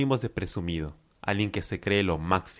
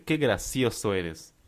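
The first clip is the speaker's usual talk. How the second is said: slow, understated sarcasm; sarcastic; slower than usual. Acted. Lucía answers Juan, whom she takes for a liar, mildly sarcastic. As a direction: say it slowly, lightly sarcastic. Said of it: "en tono sarcástico".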